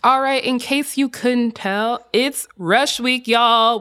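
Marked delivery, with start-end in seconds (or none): 2.1-3.8 put-on slow, drawn-out Southern accent on Rush Week; slipping into Southern accent. Cohost announcing Rush Week in a playful Southern accent. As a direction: play up a Southern belle welcome. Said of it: "slip into the Southern accent".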